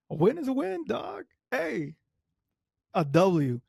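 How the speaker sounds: high, loud hype about a win; excited gloat. Real, not acted. Fan hyping up Hamilton's win, excited high gloat. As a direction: crow it like a fan hyping a buddy.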